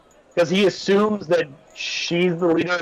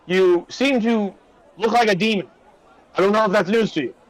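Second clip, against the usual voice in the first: lightly voiced guard, higher; a guard pointing out the obvious, slightly higher; 4 semitones higher than usual. Guard telling the stranger he looks like a demon, lightly higher. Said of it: "guard speaking".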